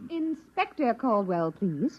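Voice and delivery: slow, soft, icy correction of her title; stiff correction. Acted. The inspector correcting the captain, cold and formal. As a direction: insist on the proper title, coolly.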